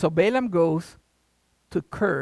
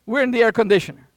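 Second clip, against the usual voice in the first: imagined grateful dog; 4 semitones higher, 7 dB louder than usual. Pretend. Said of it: "The dogs never say".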